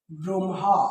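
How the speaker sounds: ব্রহ্মা said as "brom-ha"; demonstrated pronunciation. Shown as a demonstration. Teacher answering the class, ব্রহ্মা as "brom-ha". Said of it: "তো এটার উচ্চারণ কি হবে".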